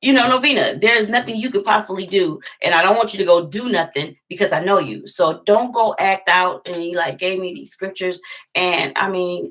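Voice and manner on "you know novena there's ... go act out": imitating pastor. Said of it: "So he's like".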